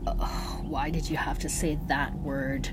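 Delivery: whispered, menacing snarl; low frightening snarl. A narrator's reading. Medea turns on the group, a whispered snarl. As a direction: hiss it like a threat. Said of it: "snarled Medea, her voice low and frightening".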